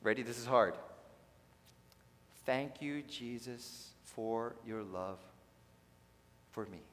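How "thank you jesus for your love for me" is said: plain. Shown as a demonstration. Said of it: "repeat after me".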